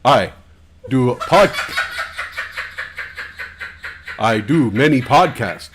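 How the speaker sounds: slow stereotype Native American speech, half laughing; put-on Native American accent, slow and stilted; mock Native American accent. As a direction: ham up a movie-Indian voice. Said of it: "We don't all talk like that".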